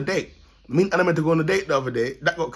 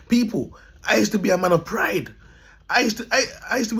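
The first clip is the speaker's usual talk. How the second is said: shouting out; 4 semitones higher than usual. Real, not acted. Proclaiming to viewers.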